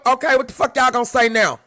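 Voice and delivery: loud, pressing challenge to the crowd; heated challenge. Real, not acted. Ranting at other content creators, loud and challenging. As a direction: demand an answer, fired up.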